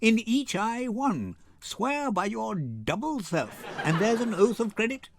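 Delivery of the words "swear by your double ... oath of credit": laughing. Acted. Portia teasing about the double oath.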